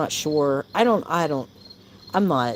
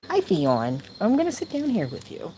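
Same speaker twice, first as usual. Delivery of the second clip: pet talk; 6 semitones higher than usual. Real, not acted. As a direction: coax the cat kindly. Talking to the cat.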